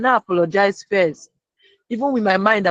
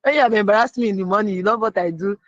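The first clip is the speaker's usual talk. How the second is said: inner sarcasm; 2 semitones higher, faster than usual. Retold or imitated. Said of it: "that's what I was saying in my mind".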